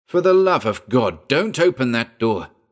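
shouted in stark horror. A narrator reads one man's cry as another heads for the door, shouting. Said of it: "he shouted".

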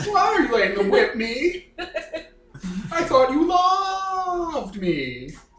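very high, swooping puppet voice, dragged out. Telling a made-up story where Scroogle is being whipped, in Scroogle's Muppet voice. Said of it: "With his Muppet voice".

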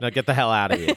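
put-on New York accent. Retelling what someone supposedly said, in a new york accent. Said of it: "I'm going into my New York accent".

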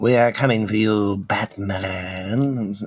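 purring voice with rolled r's. Imitating Catwoman rolling her R's like a cat: Eartha Kitt impression. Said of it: "roll her R's like a cat".

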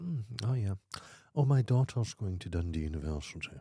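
put-on snobby female voice. Retelling what a woman at an art residency said: imitating a snobby woman. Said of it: "a rather snobby woman".

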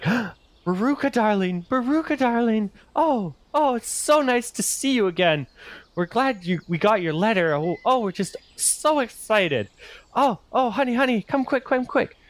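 very high, gushing, overjoyed, over-the-moon excitement. Rook's parents greet baruka as the ship is unpacked, over-the-moon excited. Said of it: "they're just over the moon excited to have you".

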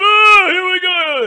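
put-on shrill, booming, very high, loud, drawn-out drunken boo. Describing a quiet crowd, imitating a drunk fan. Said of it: "I just like that impression".

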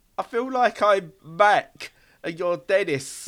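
mock slow, suggestive, innuendo-loaded insinuation. Imitating the other speaker saying it with the implication: suggestive tone. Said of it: "saying it with the implication".

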